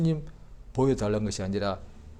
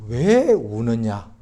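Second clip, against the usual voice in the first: slow tender question; 6 dB louder, much slower than usual. Acted. Jesus asks the weeping woman.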